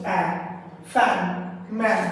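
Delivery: অ্যা alone, then the same vowel in ফ্যান and ম্যান; A sounded as অ্যা. Shown as a demonstration. Teacher showing the vowel of fan and man, অ্যা sound. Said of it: "অকার জফলা আকারের মতো উচ্চারণ".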